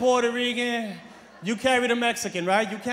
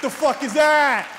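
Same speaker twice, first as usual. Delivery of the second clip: indignant shout; 2 semitones higher than usual. Real, not acted. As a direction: demand an answer, outraged. Indignant comic outburst.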